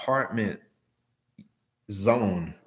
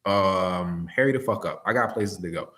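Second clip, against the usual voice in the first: a pushy, rushed "where exactly is your building"; impatient emphasis; 3 dB louder than usual. Retold or imitated. Driver showing an impatient customer call the emphasis to avoid. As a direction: demand it like you're in a hurry. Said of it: "with that type of emphasis".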